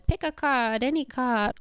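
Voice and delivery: showman lady. Acted. Lady greets them like a showman.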